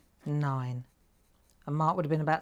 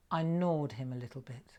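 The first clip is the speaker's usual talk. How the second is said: put-on cheeky child's quote; 4 semitones lower, 5 dB quieter than usual. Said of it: "Do you know what she said to me".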